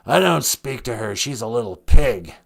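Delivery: lightly raspy impersonation of an irate actor; a hint of murderous rasp; lightly voiced menacing celebrity; Alec Baldwin. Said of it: "a murderous rasp to his voice".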